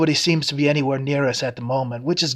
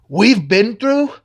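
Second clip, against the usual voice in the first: scornful echo; 8 semitones higher, 5 dB louder, slower than usual. Acted. Mocking echo of her words.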